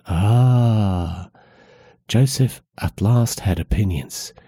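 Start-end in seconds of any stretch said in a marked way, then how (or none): 0.1-1.3 tight sigh; tense sigh. A narrator's reading. Annie sighing tensely at Joseph's news. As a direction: exhale with tension. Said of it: "Annie sighed with tension".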